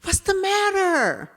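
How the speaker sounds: lightly voiced caring neighbor; concerned man. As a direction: voice the stranger asking what's wrong. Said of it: "He goes".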